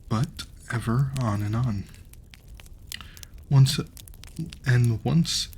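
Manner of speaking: gentle storybook reading voice; story narration. Acted. Reading a fairy tale to the audience, storybook narration. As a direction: read the tale to a listener.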